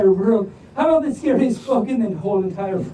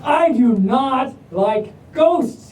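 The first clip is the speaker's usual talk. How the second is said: timid rock; much slower than usual. Acted. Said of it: "he says".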